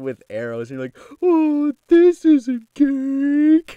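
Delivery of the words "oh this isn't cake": very high, very slow, loud squealing puppy talk. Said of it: "that's the voice".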